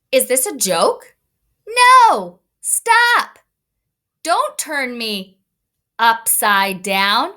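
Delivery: put-on a small boy yelling to be put down; protesting kid. Shown as a demonstration. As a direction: son Anthony protesting at his brothers. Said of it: "put some special words to this photograph".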